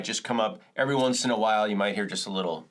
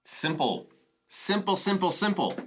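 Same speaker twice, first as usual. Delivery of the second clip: playful singsong; 8 semitones higher than usual. Real, not acted. Playful repeat of simple.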